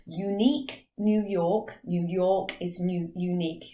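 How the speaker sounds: slow, careful English accent, slightly stumbling; hesitant English-accented tongue twister; English accent attempt. Shown as a demonstration. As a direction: try it in an English accent, word by word. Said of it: "I can't say it in English properly".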